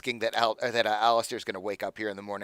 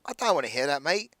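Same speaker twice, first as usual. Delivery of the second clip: climbing higher and louder into a rough burst; rising upset; 7 semitones higher, 6 dB louder than usual. Acted. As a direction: push the refusal up until it bursts out. Drunk NPC rejects player's worry.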